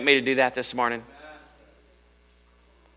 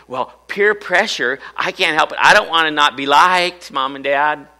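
mock teenage excuse, raised pitch; pleading teenager; 4 semitones higher, 4 dB louder than usual. Teenager excusing themselves to Mom and Dad, pleading. Voicing a teen pleading with parents.

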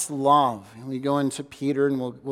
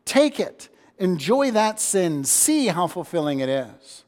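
sarcastic God; 3 semitones higher, slower than usual. Acted. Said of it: "he might say".

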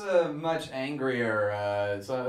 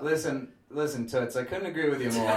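put-on Bronx accent; 5 semitones lower, 6 dB quieter, faster than usual. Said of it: "my new character, the feminist from the Bronx".

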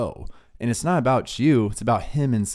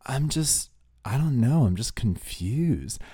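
puzzled; 3 dB quieter, slower than usual. Retold or imitated. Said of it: "puzzled look on his face".

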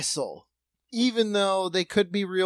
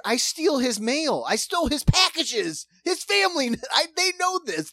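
whiny sad sack voice; 9 semitones higher, 4 dB louder than usual. Retold or imitated.

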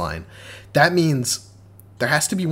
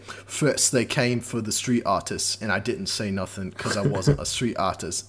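put-on Cockney British accent; 4 dB quieter than usual. Podcaster mocking a game film's solemn poem, imitated Cockney accent. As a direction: imitate a Cockney narrator, lightly hammed-up. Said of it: "guy in a Cockney British accent".

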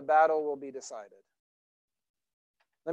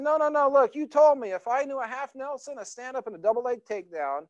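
put-on high, insistent childish protest that speeds up; boy protesting; 5 semitones higher, faster than usual. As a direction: make your case like an upset kid. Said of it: "he said".

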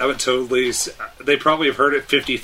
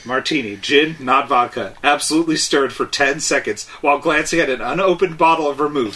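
slightly raised mock British gentleman; light British accent; 3 semitones higher than usual. Showing off the martini line: light British accent. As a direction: deliver it like a suave spy. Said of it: "talk a little with a little British accent".

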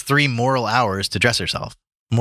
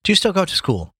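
higher, friendly question; 10 semitones higher than usual. A narrator's reading. Guest to young maid in the pantry, friendly question. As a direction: ask it kindly, lifting the pitch. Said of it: "he said in a friendly tone".

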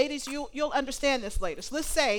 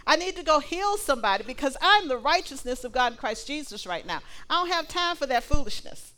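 higher and louder, bold and scornful; indignant righteous refusal; 5 semitones higher, 6 dB louder than usual. Acted. Righteous believer turns down a gossip invitation, proud and loud.

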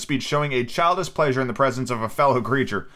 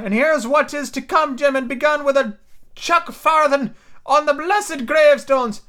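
Ben Gunn voice; 11 semitones higher, 4 dB louder than usual. A narrator's reading. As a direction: confide like a lonely hermit.

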